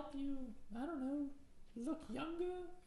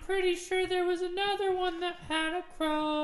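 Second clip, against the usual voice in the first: excited rant; 4 semitones higher, 12 dB louder than usual. Acted. Excited rant over crow.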